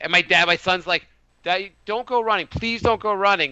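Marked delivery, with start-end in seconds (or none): 1.4-3.5 put-on higher, mildly pleading child voice; imitated scared son. Son begging dad not to run, mildly scared. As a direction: lightly plead like a worried kid, slowing at the end. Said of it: "he's, like, scared I'm gonna die".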